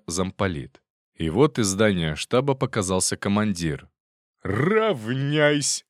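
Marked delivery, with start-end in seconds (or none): 4.4-5.8 drawn-out parade-ground bark, high; booming command. A narrator's reading. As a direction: bellow it across the square. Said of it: "трубным голосом подал команду".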